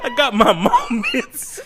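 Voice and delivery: smooth talker. Retold or imitated. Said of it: "I'm a smooth talker".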